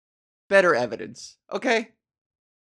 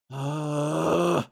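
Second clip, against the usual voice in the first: retold grunt. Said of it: "under my breath".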